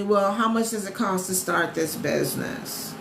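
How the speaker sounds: slow, drawn-out mock viewer question; slightly strange put-on asking voice; odd questioner voice. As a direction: ask it the way a confused viewer sounds. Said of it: "I don't know why I said it like that".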